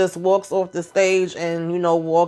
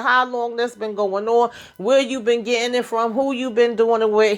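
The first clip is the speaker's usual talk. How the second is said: mildly angry, higher-pitched questioning; retold pissed-off dad; 4 semitones higher than usual. Dad interrogates his son about drug use, mildly pissed. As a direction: question him like an annoyed father. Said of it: "Whereas Phil is pissed".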